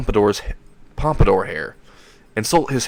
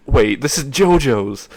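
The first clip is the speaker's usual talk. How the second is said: high-pitched, drawn-out mock yell; mock scream; 6 semitones higher, slower than usual. Issei curses the evil system that tricked him, mock scream. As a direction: cry it out slowly in a raised pitch, half-shouted. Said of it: "is what he screams out".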